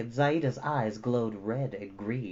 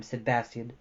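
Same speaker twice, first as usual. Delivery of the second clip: ordinary delivery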